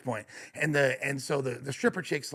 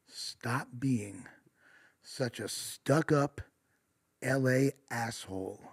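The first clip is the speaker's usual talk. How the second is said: put-on lower, softer, slow drunk tough-guy voice; mock drunk tough guy; 5 semitones lower, 7 dB quieter, slower than usual. Drunk boyfriend sneering at the LA guy, slow mock bully voice. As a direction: drag it out like a sloppy drunk bully. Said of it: "this guy says".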